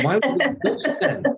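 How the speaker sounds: high, laughing mock disbelief; laughing inner thought. Author mocking his own inner reply to a child, laughing. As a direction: laugh at your own silly question. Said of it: "in my mind, I'm thinking".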